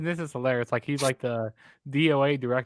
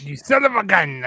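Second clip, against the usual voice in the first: mock outrage; 4 semitones higher, 4 dB louder than usual. Mock outburst at co-host's pick.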